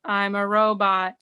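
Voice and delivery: flat robotic newscaster voice; deadpan robot voice, no feeling. Shown as a demonstration. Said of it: "talk like this".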